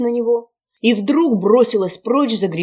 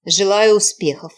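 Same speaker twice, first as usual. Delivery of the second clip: sarcastic; 6 dB louder than usual. Acted. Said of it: "язвительно сказала ведьма".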